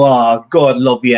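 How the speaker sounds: mock pity. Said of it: "sob stories to get people saying".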